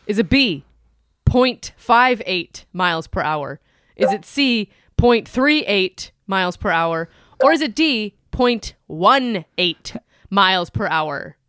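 drawn-out quiz host reading; game show host. Acted. Reads quiz options like host.

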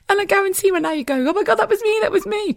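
very high, squeaky with laughter; laughing. Real, not acted. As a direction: talk on while helpless with giggles. Still laughing, imagining listeners' reaction.

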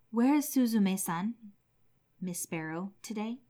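gently fretting for the missing pet; anxious question. Acted. Old man asks his wife about the sparrow, mildly anxious. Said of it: "said anxiously".

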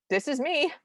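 high, rising cartoon phone answer; Sadie. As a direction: imitate a cartoon lady announcing herself. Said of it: "Sadie just goes".

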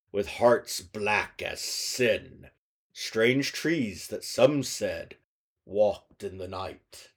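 storytelling narration. Acted. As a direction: read it like a dark fairy tale. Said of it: "I'm just gonna read some of it to you".

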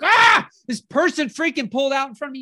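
mildly mocking road-rage complaint; irritated driver rant. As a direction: vent like a cut-off driver. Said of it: "you're all pissed off".

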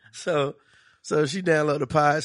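usual speaking voice

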